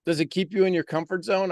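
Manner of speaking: usual speaking voice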